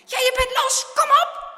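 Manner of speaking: high, loud urging; excited, forceful cry; urgent cheering shout. A narrator's reading. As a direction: yell him out of the mud. Friend yells as boot frees.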